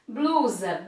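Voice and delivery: Blusa said slowly and clearly as a model word; teacher models the word Blusa for the class, clearly. Shown as a demonstration. Teacher pronouncing Blusa carefully for students. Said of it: "a palavrinha blusa".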